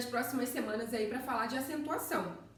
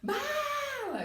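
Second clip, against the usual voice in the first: "Bala" with BA held long and high; "Bala" as a drawn-out high call, baaaa-la; held stressed syllable. Shown as a demonstration. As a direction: stretch out the BA in "Bala" like a high call, then drop on LA. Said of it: "Então, eu seguro ba".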